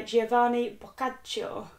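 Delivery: Italian-accented name; put-on Italian accent. Real, not acted. Reader sounding out an Italian author's name, put-on Italian accent. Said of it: "why I did an accent for that".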